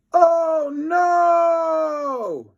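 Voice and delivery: high, loud panicked cry; a tiny boy shrieking in fear; shout. A narrator's reading. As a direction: yell it in a squeaky high panic. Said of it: "shouted Cheese Ball".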